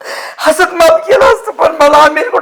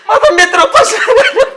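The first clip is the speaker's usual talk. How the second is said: higher, rising wail on माझा; drunken wailing; 6 semitones higher than usual. Acted. Drunk man wails to his friend about going hungry, higher and sobbing. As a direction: let the crying break out on माझा मित्र. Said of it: "तू गप रडू नको".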